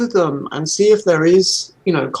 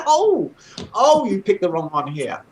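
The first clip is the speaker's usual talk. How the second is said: laughing retort; 3 semitones higher than usual. Retold or imitated.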